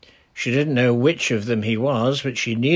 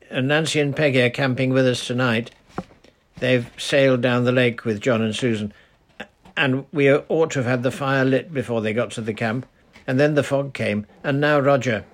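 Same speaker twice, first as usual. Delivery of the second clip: put-on eager girl's voice, a bit higher; urgent little girl explaining; lightly voiced girl asking for help; young girl Titty; 3 semitones higher, 3 dB louder than usual.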